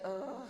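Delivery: low, soft mock groan; imitated groan. Preacher mimics men dreading feelings talk, mock groan. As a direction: groan like a reluctant crowd. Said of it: "Any groans in the room?".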